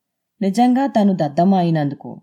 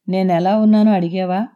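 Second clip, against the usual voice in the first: a touch of hurt resentment, louder; wounded, bitter question to her husband; wife, ignored after the birth, resentfully asks her husband; 5 dB louder than usual. Acted. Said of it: "అంది తన్మయి ఉక్రోషంగా".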